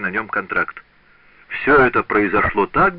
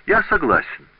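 cheerful agreement; 8 semitones higher than usual. A narrator's reading. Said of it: "воскликнул он весело".

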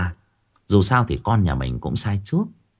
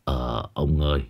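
sighing; 6 semitones lower, 6 dB quieter than usual. A narrator's reading. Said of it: "Chú Vinh cũng thở dài".

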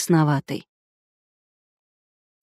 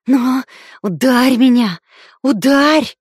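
taunting shout; 4 semitones higher, 8 dB louder, slower than usual. A narrator's reading. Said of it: "прошипела она".

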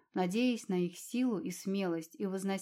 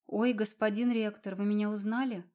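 surprised squeak. Acted. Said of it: "снова пискнула Алина, на этот раз удивлённо".

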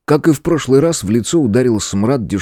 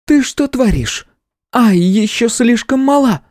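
scolding sister; slower than usual. A narrator's reading.

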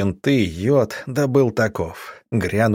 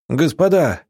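a sudden alarmed shout, louder and higher; 6 semitones higher, 3 dB louder than usual. A narrator's reading. A small militiaman shouts the alarm from the window. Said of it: "вдруг закричал".

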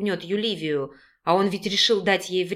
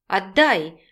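cross, louder demand; woman demanding her pills back, displeased and louder; 2 semitones higher, 4 dB louder, slower than usual. A narrator's reading. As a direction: snap back to get it returned. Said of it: "недовольно потребовала Юливия".

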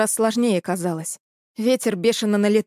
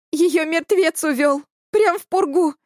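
higher, slow, sobbing words; 7 semitones higher, 3 dB louder than usual. A narrator's reading. Elya sobs to the boys that Nadya was taken. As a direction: let the sob break through the words. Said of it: "всхлипнула Эля и разрыдалась".

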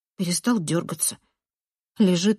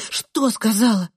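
raised, impatient demand; demanding question; 4 semitones higher, 3 dB louder than usual. A narrator's reading. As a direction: cut into the wailing with a question. Narrator questioning wailing boy. (требовательный вопрос)

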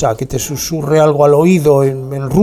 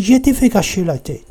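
higher, softened sweet-talking French; coaxing, higher-pitched French sweet talk; honeyed French; 4 semitones higher than usual. Shown as a demonstration. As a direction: say the threat like a lilting endearment. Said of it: "pero si te dicen así".

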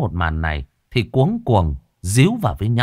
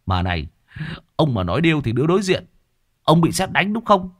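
high, fast sarcastic jeer at his oath; mocking scolding; 7 semitones higher than usual. A narrator's reading. Master mocks servant Hải's oath, sarcastic. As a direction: scoff at the promise.

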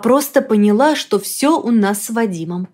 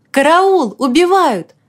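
крик о помощи; 6 semitones higher, 4 dB louder, slower than usual. Pretend.

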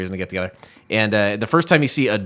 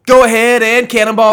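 excited urging; 10 semitones higher, 9 dB louder than usual. Pretend. Urging the cannonball jump.

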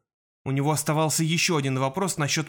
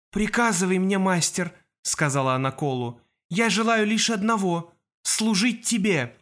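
eerie servant voice; 4 semitones higher than usual. Acted. Possessed girl serves her master.

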